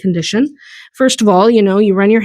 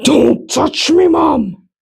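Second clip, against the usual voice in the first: whiny pony voice, a bit higher and slow; pony whining at his mom, drawn out; voicing the pony; 4 semitones higher, much slower than usual. Pony complains to his owner about being checked, whiny. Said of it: "He's like".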